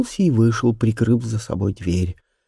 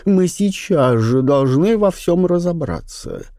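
mild indignation; 6 semitones higher, slower than usual. A narrator's reading. Viscountess outraged.

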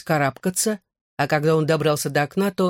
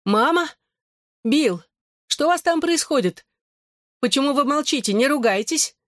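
agitated cry; 9 semitones higher than usual. A narrator's reading. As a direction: shout up the stairs, worried. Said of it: "послышался взволнованный крик". (взволнованный высокий крик с лестницы)

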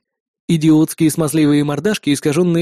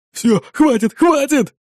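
high-pitched anxious capitulation; exhaled surrender; 8 semitones higher, slower than usual. A narrator's reading. Brother gives up to save his twin, exhaled surrender. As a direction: give in, pitch climbing on the repeat. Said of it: "выдохнул Фернандо".

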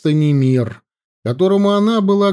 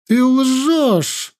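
higher, sharp outburst; exclaiming; 10 semitones higher than usual. A narrator's reading. Princess calling the chief a liar, high exclamation. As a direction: fling the accusation out. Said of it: "воскликнула царевна".

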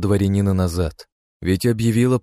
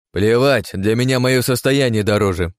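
high, loud scornful spit; contemptuous; 5 semitones higher, 5 dB louder than usual. Acted. Askarkhanov dismissing the boy's fate, contemptuous. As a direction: sneer it out dismissively. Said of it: "презрительно сплюнул Аскарханов".

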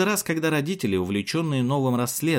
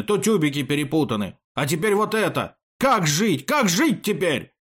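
despairing lament; 5 semitones higher, 4 dB louder than usual. A narrator's reading. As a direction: build to a higher, louder cry of hopelessness. Ruined artist lamenting after his cry. (отчаянное причитание, на повышенных тонах)

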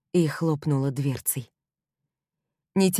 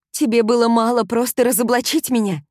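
furious accusation; 7 semitones higher, 6 dB louder than usual. Acted. Heroine accuses him furiously.

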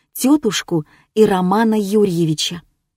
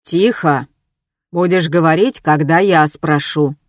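rough; 3 semitones lower than usual. Acted. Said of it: "так груб с соседом".

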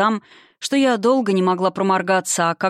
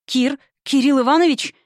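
calling Кирилл Иванович higher in fear; frightened cry; 6 semitones higher than usual. Acted. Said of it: "испуганно крикнула я в темноту".

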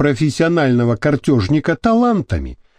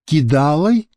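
uncertain. Acted. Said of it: "неуверенно переспросил Вася".

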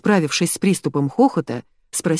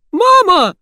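much higher, much louder squeal; shriek; 8 dB louder than usual. A narrator's reading. Daughter calling her mother in fright, shrill squeal. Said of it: "взвизгнула Рита".

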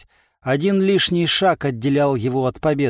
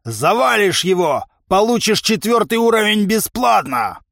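high, raised, goading promise; pushy higher-pitched bargain; caustic trainer; 7 semitones higher, 4 dB louder than usual. A narrator's reading. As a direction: egg him on with a biting offer. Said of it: "язвительно заметил овцебык".

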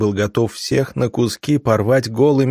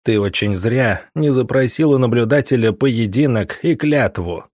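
spitting contempt; 2 semitones higher than usual. Acted. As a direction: spit each word at his face. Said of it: "выплюнул мне в лицо вожак".

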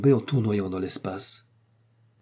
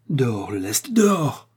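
urgent command; 2 semitones higher, 3 dB louder than usual. A narrator's reading. Doctor ordering ballast thrown from the falling balloon, urgent command. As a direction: start firm, then leap up on the final word.

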